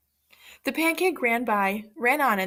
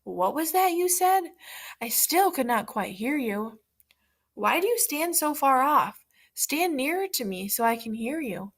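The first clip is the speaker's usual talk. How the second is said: sly fox coaxing; 4 semitones higher than usual. Acted. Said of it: "The fox squinted and said".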